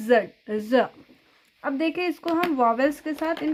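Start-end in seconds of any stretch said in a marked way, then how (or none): 0.1-0.9 जेड said as the name, then ज as a short bare sound; name it, then give just the ज sound; letter name then sound. Shown as a demonstration. Teacher contrasting the name जेड with its sound ज. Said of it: "जेड का sound क्या होता है".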